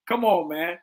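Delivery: ordinary talk, nothing marked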